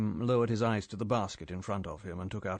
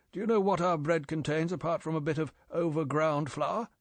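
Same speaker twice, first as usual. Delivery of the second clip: put-on severe old chief lecturing, higher; raised, lecturing boss voice; 6 semitones higher, 3 dB louder than usual. M lecturing Bond.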